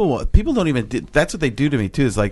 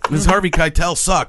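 Harvey Keitel impression; 9 semitones higher than usual.

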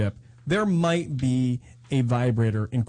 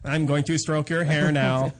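slow, measured robot voice; a hint of a machine talking. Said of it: "My robot voice".

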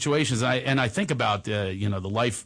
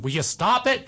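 mom voice; 5 semitones higher than usual. Retold or imitated. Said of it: "so she's going".

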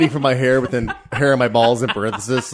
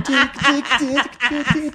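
laughing; 11 semitones higher, slower than usual. Acted. Teasing sing-song tick tick.

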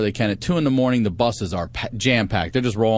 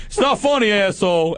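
high, indignant imitation of a friend; acted-out outrage; retold angry protest; 10 semitones higher, 3 dB louder than usual.

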